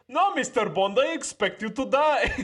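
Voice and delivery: high, mock-villain send-up; Goldfinger impression. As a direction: play the Bond villain much too high, half laughing. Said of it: "That's a Yorkshire accent".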